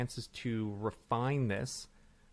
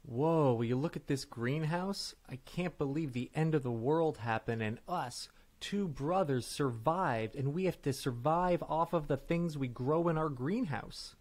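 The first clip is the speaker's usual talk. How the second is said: unhurried scene-setting, word by word; deliberate, slightly condescending; 2 semitones higher than usual. Acted. Improviser setting up a greenhouse scene for partner, deliberate and slightly condescending. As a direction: spell it out a touch too carefully. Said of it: "Why are you talking so slow?".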